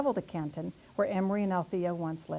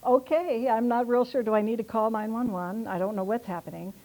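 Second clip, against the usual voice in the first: mock alarmed; 3 semitones higher, 5 dB louder than usual. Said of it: "And I'm, like, going".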